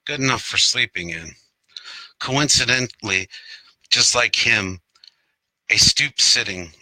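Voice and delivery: measured verse, broken into short phrases; poetry reading. Acted. Poet reads Robert Frost Chinos to online audience, poetry reading. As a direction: recite it with small pauses between images. Reads own poem aloud.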